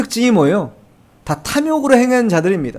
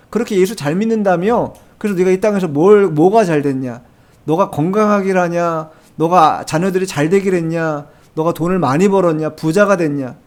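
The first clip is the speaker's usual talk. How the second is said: a hint of a sneering unbeliever; mock jeering; 2 semitones lower than usual. Scoffer jeering at a believer's life, mild mock taunt. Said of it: "이런 식으로 조롱하는".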